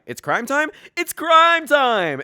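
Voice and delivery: rising to a loud, very slow cheer; excited echo. Acted. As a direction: build the chant into a shout. Crowd echoes catchphrase.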